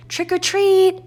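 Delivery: gleeful high holler; excited kids' cry. Acted. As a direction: shout it like eager kids at the door. Children calling at doors.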